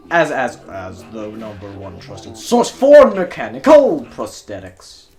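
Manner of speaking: intercom announcer. Acted. Lobby intercom announcement plays.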